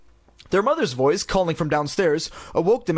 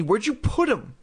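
impatient; 7 semitones higher than usual. A narrator's reading. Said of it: "Chris demanded impatiently".

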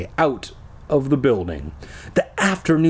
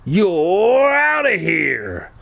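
dismissive; 7 semitones higher, much slower than usual. A narrator's reading. Tasha kicking Ricky out.

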